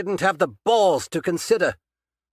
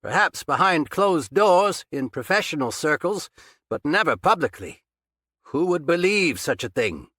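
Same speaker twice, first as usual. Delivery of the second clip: loud, higher, calm speech across the room; calling from afar; 7 semitones higher, 5 dB louder than usual. A narrator's reading. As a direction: lecture him loudly from across the basement. Captor speaking from far off.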